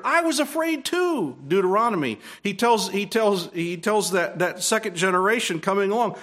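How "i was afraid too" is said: quoted Moses. Retold or imitated. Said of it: "Moses tells us later".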